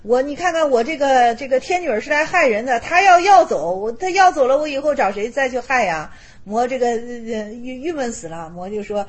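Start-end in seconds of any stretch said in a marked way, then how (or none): 0.0-6.1 higher and louder, panicky rush; a fretting demon whose trick just failed; flustered demon. Retold or imitated. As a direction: demon Mara frets aloud as Vimalakirti exposes him. Demon panics his plot is exposed.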